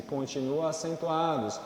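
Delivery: ordinary delivery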